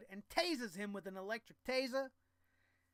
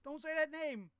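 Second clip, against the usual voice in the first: higher, louder mock alarm; hammed-up startled warning; 6 semitones higher, 3 dB louder than usual. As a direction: yelp it as if in fake panic.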